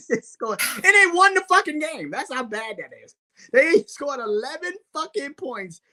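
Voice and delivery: cracking up at how bad it is; laughing disbelief. Real, not acted. To his cohost about Denver's eleven-point win, laughing in disbelief.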